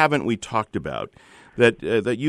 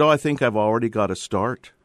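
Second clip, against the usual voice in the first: put-on Northern Irish accent. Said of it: "you've actually done a pretty good imitation of a Northern Irish accent".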